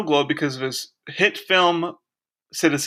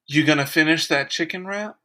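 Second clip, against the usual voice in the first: breathy voice. Pretend. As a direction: breathe it like a come-on. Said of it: "Now notice the breathy voice".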